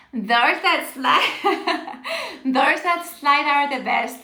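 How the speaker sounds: drawn out slowly, then laughing through it; laughing joke. Real, not acted. Teacher joking to a student about cars that slide, laughing. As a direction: giggle your way through the joke.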